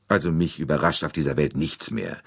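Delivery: ordinary delivery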